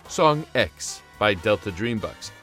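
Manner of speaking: usual speaking voice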